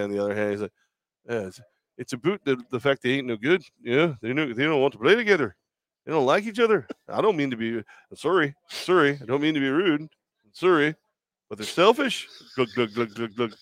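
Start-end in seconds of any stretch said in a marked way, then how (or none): 1.3-12.3 hammed-up, super-nice Canadian accent; apologetic Canadian coach with lilting, rounded vowels; Canadian impression. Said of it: "I did the Canadian accent with the boot". 12.6-13.5 mouth-made beer glugs; quick run of gulping noises; imitated glugging. Imitates drinking from beer can.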